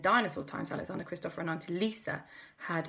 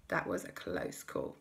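relieved; 11 semitones lower, 8 dB quieter than usual. Acted. Relief after escape.

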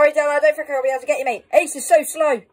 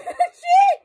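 yelling across the room; 3 dB louder than usual. Real, not acted. Jump scare by the killer.

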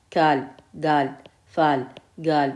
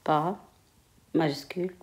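murmuré lentement, mot après mot, en écrivant au tableau; à voix basse en écrivant; 11 dB quieter than usual. Real, not acted. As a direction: dicte tout bas pour soi, avec de longues pauses. Dictates softly while writing on board. (la maîtresse écrit au tableau et se dicte les mots, à voix basse)

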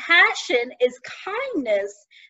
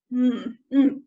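yawning hum. Acted. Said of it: "I guess I'm yawning".

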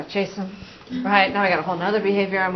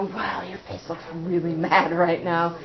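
gentle naming of feelings; 2 semitones lower, 4 dB quieter, slower than usual. Shown as a demonstration.

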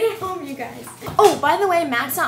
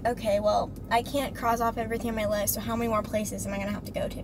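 mock weary; 3 semitones lower, 6 dB quieter, faster than usual. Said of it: "and then you're like".

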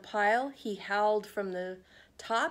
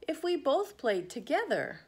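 pleading Trevor; 6 semitones higher than usual. Acted. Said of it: "Trevor said to Pig".

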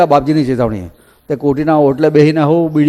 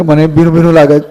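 a touch louder, different voice for Chiman; Chiman echoing; 4 dB louder than usual. Retold or imitated. Chiman repeating his friend in the flooded hut, lightly voiced. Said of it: "Chiman કે".

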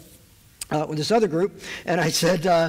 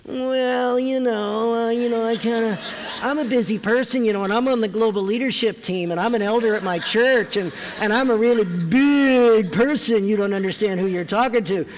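high, slow self-important excuses; pompous no face; 4 semitones higher, 3 dB louder, slower than usual. Pretend. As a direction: puff yourself up and refuse. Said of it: "If I have a no face".

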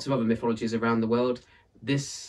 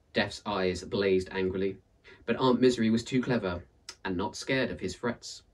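lively storyteller reading a folktale; story narration; 3 dB louder than usual. A narrator's reading. Narrator reading a folktale aloud, lively storytelling. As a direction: tell it like a read-aloud tale for listeners.

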